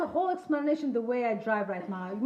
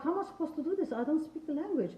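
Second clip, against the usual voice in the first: mock bewilderment; 5 semitones higher than usual. Retelling her bewildered reaction.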